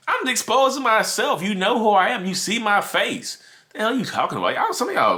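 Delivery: high, loud outburst at the losers; angry yelling. Real, not acted. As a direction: yell it out, fed up and furious. Angry rant at online critics.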